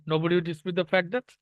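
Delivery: slow, careful dictation of an English sentence; slow read-aloud. Shown as a demonstration. Teacher reading the sentence to students, slow and careful. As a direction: spell it out slowly for the class.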